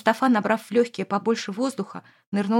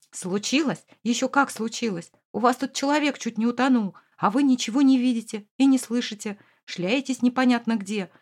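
furious. Acted. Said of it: "с яростью ответил ему Эмир".

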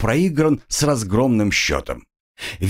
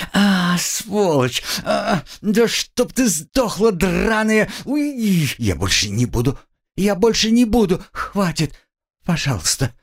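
high, slow, pained cries; whipped girl, high cries turning to begging; screaming then begging; 9 semitones higher than usual. Acted. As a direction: curse then plead under the whip. Girl whipped, curses then begs.

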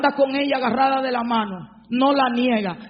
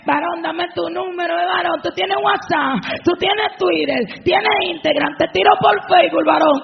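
higher, pushy come-on voice; mock flirty woman; 3 semitones higher than usual. Preacher mimics a woman begging the husband's number, pushy higher come-on. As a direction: ham up a woman chasing the man.

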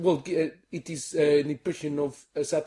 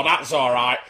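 Zippy; 3 semitones lower, slower than usual. Acted. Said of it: "Zippy and George".

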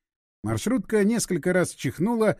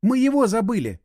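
high, raised narrated cry; alarmed cry; 4 semitones higher, 4 dB louder than usual. A narrator's reading. Irina warns the others about the stranger, alarmed cry. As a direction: call out higher in alarm.

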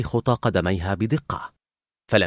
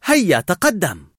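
high, slow encouraging call; urging on; 7 semitones higher, 4 dB louder, slower than usual. A narrator's reading. Girl urging scared Carl onto the plank, high drawn-out encouragement. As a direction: spur a hesitant friend forward. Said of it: "لكن إيلي حفزته".

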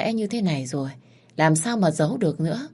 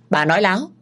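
indignant denial; 3 semitones higher, 4 dB louder, faster than usual. Acted. Cậu Hai defends his mother.

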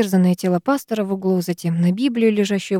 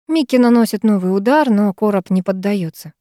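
ordinary delivery, nothing marked

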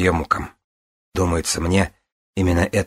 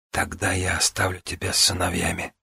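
reassuring; 6 dB quieter than usual. Acted. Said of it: "успокаивающе проговорила Вивиана".

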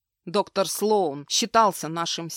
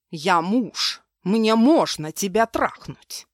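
slow, louder menacing husband; 5 dB louder, slower than usual. Acted. Abusive husband threatens his wife, slow menacing voice. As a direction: lean in and threaten her, slow and heavy.

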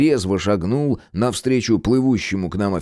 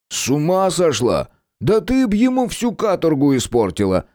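higher, joking outburst; lightly voiced mock-alarmed Gena; 9 semitones higher than usual. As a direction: cut her off with a gag. Gena interrupts.

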